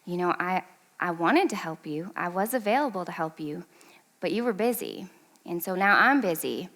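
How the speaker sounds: soft, low, even reply; calm parent. Retold or imitated. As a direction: answer the upset child gently and quietly. Parent calmly answering her screaming child.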